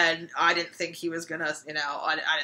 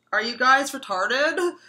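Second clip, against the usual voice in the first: exasperated; 7 semitones higher, 6 dB louder, slower than usual. Retold or imitated. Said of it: "And I'm thinking".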